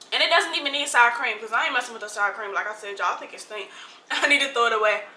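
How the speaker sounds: talking with mouth full; words through a mouthful. Real, not acted. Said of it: "talk to y'all with my mouth full".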